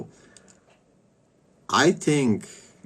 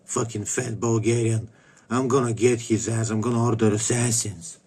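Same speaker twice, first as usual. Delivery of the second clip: lightly put-on cartoon character voice; mock a childish, grumbling woman; Ontiria. Streamer mimics a woman griping about him, mild cartoonish impression. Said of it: "like a fucking cartoon character".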